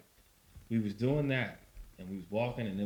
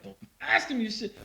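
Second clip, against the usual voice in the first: mock dismissive dad; 12 semitones higher, 5 dB louder than usual.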